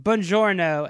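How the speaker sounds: mock Italian greeting; hammy Italian accent. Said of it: "him doing an Italian accent".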